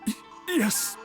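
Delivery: shaken, halting assent; intimidated. Acted. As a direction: stammer it out, cowed by a threat. Cowed after a veiled threat.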